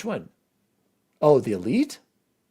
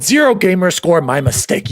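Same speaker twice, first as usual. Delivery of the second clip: quoting own remark pointedly; 2 semitones higher, 5 dB louder than usual. Retold or imitated. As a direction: repeat it with a pointed tone. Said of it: "With that tone".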